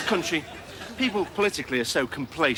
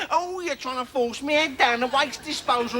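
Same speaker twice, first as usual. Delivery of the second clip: mild complacent victim; 7 semitones higher than usual. Retold or imitated. Victim voiced mildly, high.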